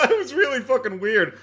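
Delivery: laughing at how weird it was. Real, not acted. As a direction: keep laughing as you say it. Still laughing.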